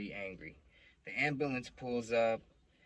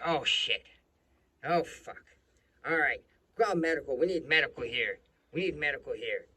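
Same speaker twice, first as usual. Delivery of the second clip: raised, louder mock panic call for help; alarmed cop; 5 semitones higher, 9 dB louder than usual. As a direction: imitate a cop urgently calling for medics. Retold cop urgently calls for medics.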